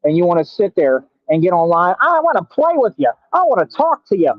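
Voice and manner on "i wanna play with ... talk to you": high, mock pleading fan voice; mocking whiny viewer. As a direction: parody a clingy fan begging for attention.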